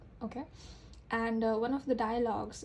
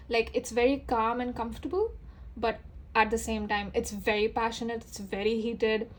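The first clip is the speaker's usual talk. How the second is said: growing more animated and slightly louder; rising volume; 3 dB louder than usual. Real, not acted. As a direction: voice climbing from calm to a bit louder with excitement. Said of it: "you can feel my volume, my voice is going up".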